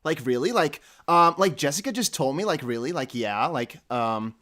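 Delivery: lightly mimicked California girl chatter; a touch of mock Californian Valley Girl; Californian girl accent. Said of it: "from the Californian accent".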